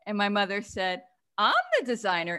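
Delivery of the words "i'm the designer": put-on New Jersey accent. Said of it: "in her New Jersey accent".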